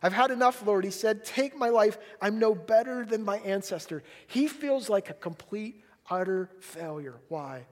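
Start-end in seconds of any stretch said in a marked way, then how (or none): 0.0-1.2 raised, exasperated plea; frustrated. Acted. Elijah at the end of his rope, frustrated with God. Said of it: "He's so frustrated". 1.2-4.0 frustrated. Acted. Elijah asking God to end it, frustrated and worked up. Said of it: "He's so frustrated".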